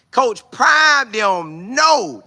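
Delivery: excited holler; hype shout. Real, not acted. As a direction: shout the name to fire people up. Hyping up the team.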